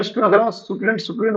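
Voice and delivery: mock learner saying स्टूडेंट with an extra vowel; imitating learners. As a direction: tease how pupils mangle स्टूडेंट. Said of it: "कोई लोग". (बच्चों की नकल, स्टूडेंट को बिगाड़कर)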